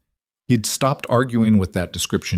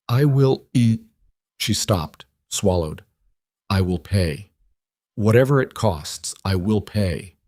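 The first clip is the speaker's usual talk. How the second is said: put-on faint Eastern European accent. A narrator's reading. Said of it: "Her accent was faint. Eastern European".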